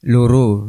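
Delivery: "Loro" with a close first vowel, like luro; loro meaning two. Shown as a demonstration. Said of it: "loro dengan loro itu beda". ("Loro" diucapké luro, tegesé loro (angka))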